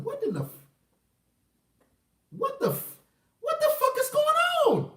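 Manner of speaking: stammered disbelief erupting into a shout; building to a shout. Retold or imitated. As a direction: let the frustration boil over into a yell. She opened the snap, no reply.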